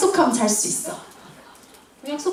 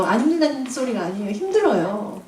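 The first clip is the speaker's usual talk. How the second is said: polite correction. Real, not acted. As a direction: take back the blunt words with a polite apology. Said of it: "죄송해요".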